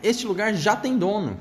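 high squeaky rat voice. Acted. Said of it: "disse a carinha".

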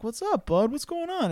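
lightly voiced kind runner checking in; fellow runner. Stranger consoling a crying runner, lightly voiced and concerned.

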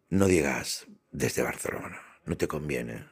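slow, low and soft warning; hushed street advice. Retold or imitated. Passers-by warning him not to say Barcelona, hushed. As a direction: caution him quietly, slowly. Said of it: "algunos por la calle me decían".

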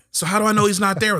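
high, loud comic panic; worked-up scared kid, played for laughs; hammed-up panic. Acting out his childhood panic.

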